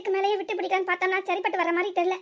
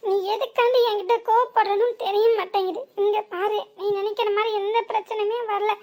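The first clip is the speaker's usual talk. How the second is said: louder, insistent denial; loud protest; 2 semitones higher, 4 dB louder than usual. Acted. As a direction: insist nothing went wrong. Daughter protests mother's anger. (உரத்த மறுப்பு)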